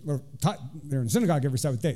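hurried reread of the verse; fast self-correction; quick correction. Shown as a demonstration. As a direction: rattle off "taught there in the synagogue every Sabbath day" fast.

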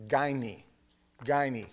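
gyne said as GUY-nee, falling each time; Greek word said twice. Shown as a demonstration. Preacher teaching the Greek word for wives, careful and clear. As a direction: spell out gyne aloud, slowly. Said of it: "It's the word in Greek".

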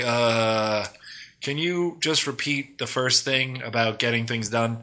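soft, hesitant imitation of a lost listener; mildly confused and timid, retold; vague terror. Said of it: "which is just this vague terror".

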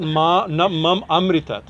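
"mam amritat" slow, with a clear break; separated syllables. Shown as a demonstration. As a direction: overemphasize the start of "amritat". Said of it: "I, I overemphasize".

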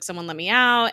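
ordinary delivery

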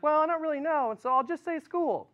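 put-on a hesitant kid unsure what to write; unsure student. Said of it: "you're like".

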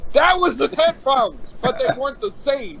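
high, indignant protest; exasperated correction. Real, not acted. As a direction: raise the pitch to argue back. Indignant argument over headphones.

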